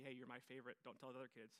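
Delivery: low, softened mock secret; hushed parent-to-child confidence, played; confidential aside. Imitating a secret told to child.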